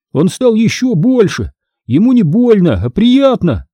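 высоко и возбуждённо; восторг младшего брата; взволнованно. Acted. Дэниел в восторге от Груля. (брат взахлёб про Груля, возбуждённо)

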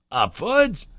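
incredulous cry. A narrator's reading. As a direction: throw the word back, unable to believe it. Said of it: "cried my uncle".

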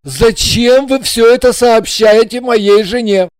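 anxious husband. A narrator's reading. Husband pleading with the blonde to stop.

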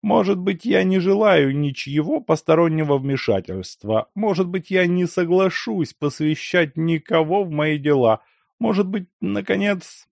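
Lyakhovsky voice. A narrator's reading. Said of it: "глухо заговорил Лиховский".

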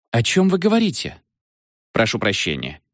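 baffled question. A narrator's reading. Eve baffled by Freddy.

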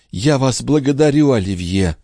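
tender. A narrator's reading. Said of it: "таким нежным голосом".

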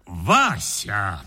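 a low, weighty Вася; ominous call of the name; significantly. A narrator's reading. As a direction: drop the name low and heavy, full of meaning. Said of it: "сказал я значительно".

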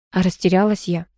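plain reading voice

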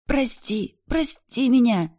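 high, strained choking plea; wheezing plea. A narrator's reading. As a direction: beg while being choked. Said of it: "хрипела девушка". (хрипя, умоляюще)

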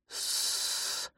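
voiceless rasp; a choked hiss from a stuck throat; strange wheeze. A narrator's reading. Cat trying to answer, strange wheeze. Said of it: "странное сипение".

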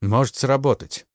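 ordinary delivery, nothing marked

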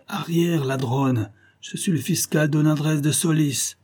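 a pale man forcing a threatening tone, starting high; attempted menace. Frightened magistrate trying to threaten the bandits. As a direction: try to sound menacing and barely manage. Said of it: "d'une voix qu'il essaie de rendre menaçante".

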